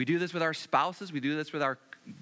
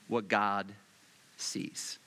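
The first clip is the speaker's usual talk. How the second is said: fading to a whisper; 10 semitones lower, 4 dB quieter, much slower than usual. Real, not acted. Prayer fading to hush.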